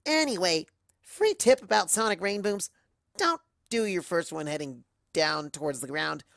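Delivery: cocky tomboy voice; brash wisecrack; Rainbow Dash. Acted. Rainbow Dash continues her tale.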